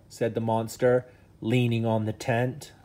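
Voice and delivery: lively bedtime-story reading voice; reading to children. Acted. Dad reading a bedtime story to his sons, animated. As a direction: read it like a storybook for the boys.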